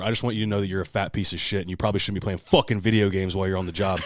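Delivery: loud, rising rant, then fast; mounting furious phone rant, laughing partway; retold tirade. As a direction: unload on the clerk, building up.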